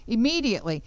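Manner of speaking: Immediately repeated alone with a firm fall; stress on immediately. Shown as a demonstration. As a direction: land hard on Immediately.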